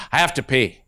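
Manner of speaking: put-on a kid quietly confessing; little boy. Little boy telling the teacher, quiet kid voice. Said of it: "He goes".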